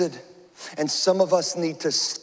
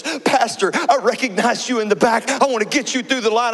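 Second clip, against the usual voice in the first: friendly officer; 5 semitones higher, 4 dB louder than usual. Retold or imitated. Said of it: "she goes".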